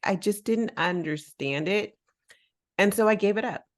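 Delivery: ordinary talk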